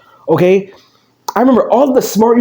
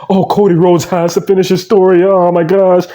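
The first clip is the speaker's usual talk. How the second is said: lightly whiny fan voice; a hint of a dramatic fan; mocking fans. Mocking fans who want the story finished, mildly whiny. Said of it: "So they're like".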